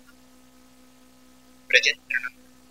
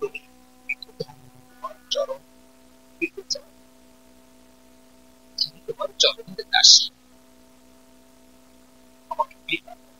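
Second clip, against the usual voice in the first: weeping plea; 3 semitones higher than usual. Acted. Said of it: "Radharani কেঁদে কেঁদে বলছেন".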